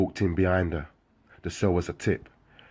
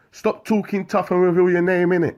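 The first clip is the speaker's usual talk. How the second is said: high, loud challenge; shouting; 12 semitones higher, 6 dB louder than usual. Acted. Rival inmate shouting a challenge, loud yell. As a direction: demand it across the wing. Window argument between cells.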